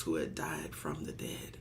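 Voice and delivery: whispered with awe; hushed, reverent whisper. Real, not acted. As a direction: breathe it out as a hushed secret. Awed whisper in sermon.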